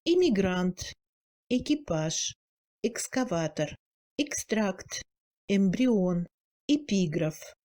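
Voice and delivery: Immigrant, équipage in Russian, first E kept audible; clear initial E. Shown as a demonstration. Teacher lists Russian loanwords for learners, E persisting. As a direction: hold the initial E in excavateur, extract, barely reduced. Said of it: "le E initial se réduit beaucoup moins".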